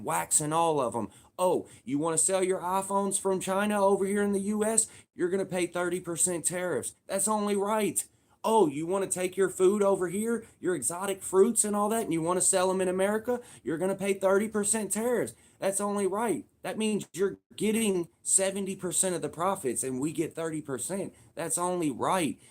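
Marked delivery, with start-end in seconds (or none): 1.4-8.0 higher, brash dealmaker voice laying down terms; mock Trump telling foreign sellers the price; playing Trump to other countries. Trump voiced to China, brash and higher. 8.4-22.4 hammed-up tough negotiator laying down the law; playing Trump setting tariffs.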